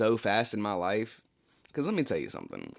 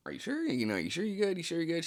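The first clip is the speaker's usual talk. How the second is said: much higher, pleading check-in; worried asking; 9 semitones higher than usual. Retold or imitated. Asking Danielle if she's really okay, high and anxious. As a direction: push the question up high and anxious.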